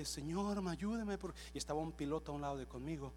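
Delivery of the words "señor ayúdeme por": imitating a woman pleading, higher pitched; mock crying plea, not sobbing; retold tearful plea. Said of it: "llora y llora". (súplica llorosa imitada)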